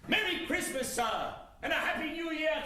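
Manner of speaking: a hint of a cheerful stranger; cheery passer-by greeting.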